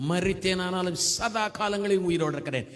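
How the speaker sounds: verse repeated with a lifted, firm voice; fervent scripture proclamation. Real, not acted. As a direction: declare the verse triumphantly. Verse repeated with more force. (உற்சாகமா வசனத்தை முழங்குதல்)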